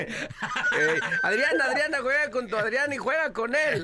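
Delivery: laughing rhyme. Real, not acted. Host makes a playful rhyme.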